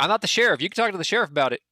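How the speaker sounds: lightly voiced local passing the buck; Twigs, dismissive. Townsman brushing off the party about the keys, dismissive.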